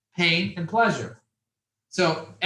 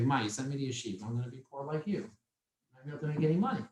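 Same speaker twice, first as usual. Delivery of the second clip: retold near-tears plea; 7 dB quieter, faster than usual. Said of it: "I was basically crying".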